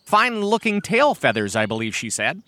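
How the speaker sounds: high, punched praise, settling down; butter him up playfully; sly flattery. Acted. Massasoit plays up the hen's praise, sly. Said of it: "with a wink".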